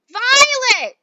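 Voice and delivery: high, loud, slow scream; mother screams as Violet turns blue. Acted. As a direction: draw the scream out in horror. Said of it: "screamed Missus Beauregard".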